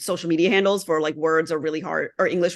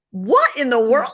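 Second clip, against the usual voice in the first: higher, louder, slow disbelief; incredulous, pitched up; retold bafflement; 6 semitones higher, 5 dB louder than usual. Retold baffled reaction to menu.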